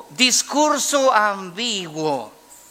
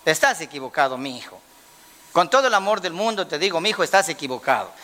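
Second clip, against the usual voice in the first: pastor's wife correcting; faster than usual. Retold or imitated. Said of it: "la pastora dice otra cosa".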